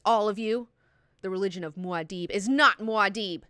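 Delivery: lightly voiced preacher rebuking the crowd; fed-up preacher. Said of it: "that's when the preacher's had enough".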